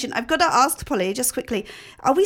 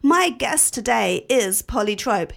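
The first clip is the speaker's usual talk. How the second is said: posh accent. Shown as a demonstration. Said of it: "shall I do posh?".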